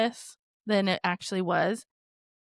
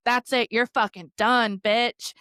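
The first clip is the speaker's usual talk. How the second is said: defiant yell; 3 semitones higher, 5 dB louder, slower than usual. Retold or imitated. Fighting back after being hit.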